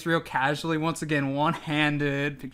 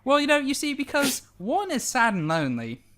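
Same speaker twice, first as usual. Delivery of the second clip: lightly voiced giant; 5 semitones higher than usual. Edward voice persuading.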